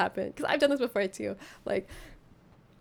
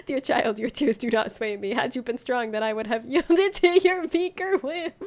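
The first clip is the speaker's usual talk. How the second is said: mock haughty villain. Mock villain speech to crying child.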